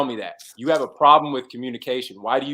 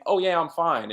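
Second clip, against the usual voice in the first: light, genuine "Oh yeah, I'm fine"; easy fine; 3 semitones higher than usual. Shown as a demonstration. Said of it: "there's a difference between".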